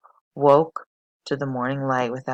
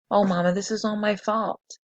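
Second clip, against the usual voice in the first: trembling; 6 semitones higher than usual. A narrator's reading. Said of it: "Charlotte began to tremble".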